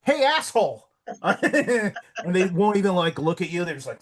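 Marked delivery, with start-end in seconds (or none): 0.0-0.9 retold yell. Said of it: "and I'm like".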